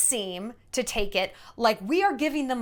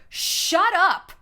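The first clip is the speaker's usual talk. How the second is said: a bright, teasing shut up, louder; playful shut up; 6 semitones higher, 5 dB louder than usual. Real, not acted. Speaking to the audience, a teasing shut up said louder. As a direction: toss it off like mock disbelief. Mock outrage at own point.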